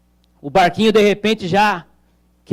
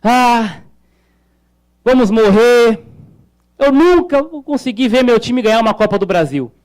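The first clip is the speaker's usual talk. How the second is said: mock desperation; 3 semitones higher than usual. São Paulo fan in the storm-tossed boat, desperate. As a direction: act out a despairing football fan. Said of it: "ele preocupado, então ele diz".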